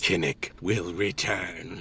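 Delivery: defiant whisper. Narrating the scene, the speaker gives the character's line in a defiant whisper. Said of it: "lets out kind of a defiant whisper".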